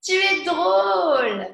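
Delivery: loud amused "Tu es drôle"; laughing after a laugh. Shown as a demonstration. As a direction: tease someone for being funny.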